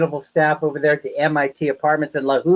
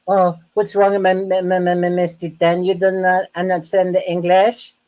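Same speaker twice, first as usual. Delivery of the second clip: higher, sneering mimic of the landlady, stammering the m's; mocking landlady; 4 semitones higher than usual. Retelling how the landlady mocked his English, sneering mimicry. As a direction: parrot her taunting voice back at her. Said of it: "she made fun of my English".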